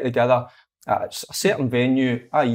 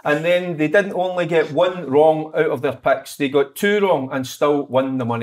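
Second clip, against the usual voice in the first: ad read. Acted. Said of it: "wanting to read things out".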